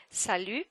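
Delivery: "Salut" ending on the vowel, no T; "Salut" with the T left off; silent final T. Shown as a demonstration. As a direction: say "Salut" as sa-lu with a French u. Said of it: "don't pronounce the T".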